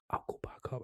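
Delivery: whispered plan; whispered thought while sneaking off. Retold or imitated. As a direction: breathe it quietly to yourself. Sneaking off to the reception.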